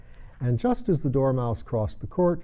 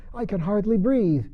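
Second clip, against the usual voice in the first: Dormouse voice; 9 semitones higher, 3 dB louder than usual. Acted. Dormouse complains.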